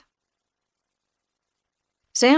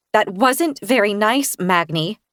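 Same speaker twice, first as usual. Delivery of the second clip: shaking with anger; slower than usual. Acted. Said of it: "my voice shaking with anger".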